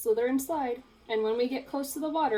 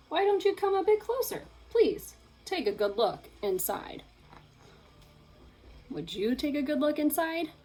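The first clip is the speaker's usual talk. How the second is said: sly shark; 4 semitones higher than usual. Acted. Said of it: "A shark".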